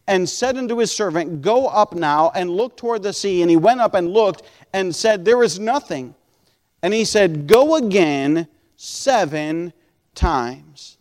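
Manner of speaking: emphatic pulpit reading of a verse; scripture reading. Acted. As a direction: read the Bible story out, slowing at the end. Reads scripture aloud to congregation.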